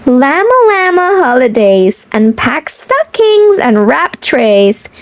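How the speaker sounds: lilting picture-book read-aloud; reading to children. Acted.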